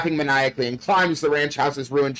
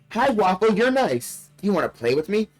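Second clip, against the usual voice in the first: talking doll; 6 semitones higher than usual. Acted. Doll speaks in story.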